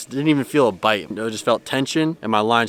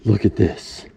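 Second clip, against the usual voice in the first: louder, breathless exclaiming in real excitement; real exclaiming, still worked up; excited; 5 dB louder than usual. Real, not acted. Angler finds his back camera off, excited. Camera failed, fish landed.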